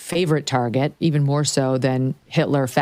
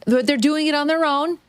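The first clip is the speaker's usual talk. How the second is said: a higher mocking parrot of the guest's words; mocking imitation; 10 semitones higher than usual. Host mocking the guest's excuse on air, in a higher mocking voice. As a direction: echo her line back as a mock.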